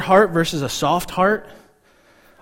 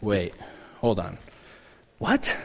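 puzzled double take; 9 semitones lower, 10 dB quieter than usual. Retold or imitated. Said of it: "then we're like".

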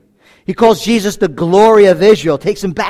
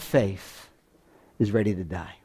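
hushed; 12 semitones lower, 14 dB quieter than usual. Real, not acted. Sermon falls to a hush.

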